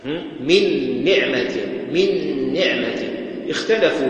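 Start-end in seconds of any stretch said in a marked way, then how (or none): 0.4-1.6 من نعمة with a long nasal doubled n; held ghunna. Shown as a demonstration. Teacher demonstrating full merging, من نعمة with held ghunna. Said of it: "هل الغنة للنون". 1.9-3.0 من نعمة with the two n's merged and held; held ghunna. Shown as a demonstration. Teacher repeating the example, من نعمة with held ghunna. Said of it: "هل الغنة للنون".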